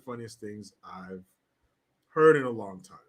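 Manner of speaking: helpless wheezing laugh; laughing till tearful; real tearful laughter; crying with laughter. Real, not acted. Laughing to tears.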